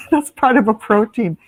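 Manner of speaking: laughing through the words; can't stop giggling. Real, not acted. I can't stop laughing when I'm looking at him.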